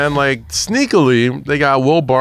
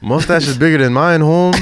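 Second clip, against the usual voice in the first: put-on Mexican accent; 4 semitones higher than usual. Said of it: "terrible fucking Spanish, that Mexican accent".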